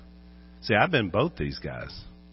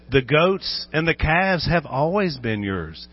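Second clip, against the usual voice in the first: mock father's retort; 5 semitones higher than usual. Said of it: "he could have said".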